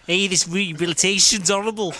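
mock old-time Bronx accent; nineteen-twenties Bronx. Mocking the presenter impression, old Bronx accent. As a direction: ham it up in an old New York Bronx accent. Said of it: "he sounded like he was in nineteen twenties Bronx".

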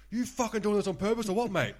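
high, loud mock outrage; retold angry accusation. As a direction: imitate an irate gambler confronting the dealer. Retold angry gambler accusing the dealer.

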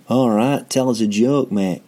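lightly imitated British rock star; a hint of cocky Manchester accent. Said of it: "That's me doing that voice".

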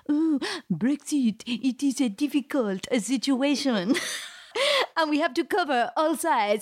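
mock hesitant reporter voice; hammed-up fence-sitting journalist; impression of Marie. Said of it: "Is that what I sound like?".

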